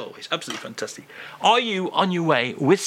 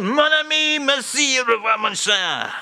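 sing-song farewell; 10 semitones higher than usual. Acted. Charles bids host farewell, high sing-song goodbye. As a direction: trill the goodbye.

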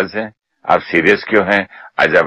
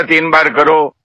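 retold firm command; 9 semitones higher than usual. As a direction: snap the order out like at home. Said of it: "जब मैंने जोर से बोला ना". (ज़ोर से दोहराया गया आदेश)

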